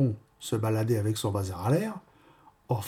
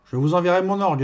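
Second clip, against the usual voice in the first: mildly hammed-up proud retort; 6 semitones higher, 5 dB louder, faster than usual. A narrator's reading. Offended organist answering the baker, proud and loud. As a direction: announce it high and loud, with pride. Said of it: "dit-il, fièrement".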